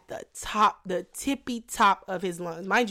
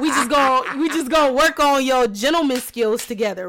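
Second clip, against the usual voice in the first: laughing; 3 semitones higher, 6 dB louder than usual. Real, not acted. Shooting shade, laughing, loud.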